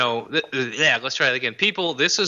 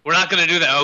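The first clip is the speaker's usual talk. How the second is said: louder, firm mock refusal; 3 semitones higher, 4 dB louder, faster than usual. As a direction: put your foot down. Mock refusal, then caving.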